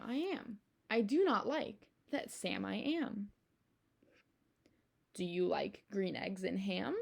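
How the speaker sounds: lively storybook read-aloud, bouncing rhythm; reading to children. Acted. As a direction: read it to the kids with playful emphasis. Reads picture book aloud.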